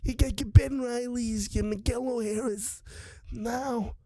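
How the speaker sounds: lightly voiced Vito Corleone rasp; a hint of the Godfather don; Godfather impression. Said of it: "Vito from The Godfather".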